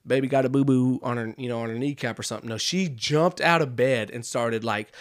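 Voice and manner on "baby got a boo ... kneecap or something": mock cutesy little cry, pitched up at first; playfully mocking a dainty scream. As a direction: imitate a cute little boo-boo cry. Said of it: "not this cute little scream that says".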